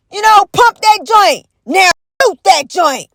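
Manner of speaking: action-movie hype yell; hype shout. Acted. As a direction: pump up the crowd. Hyping action heroes.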